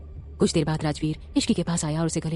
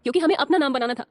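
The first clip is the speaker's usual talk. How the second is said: put-on higher young woman's voice, earnest and regretful; Ruhi regretful; 9 semitones higher than usual. A narrator's reading. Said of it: "इस पर रूही बोली".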